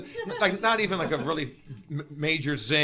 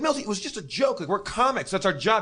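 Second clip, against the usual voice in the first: higher-pitched protest of innocence; retold defensive protest; 4 semitones higher than usual. Comic excusing his joke to Berle, defensive. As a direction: imitate someone pleading his case.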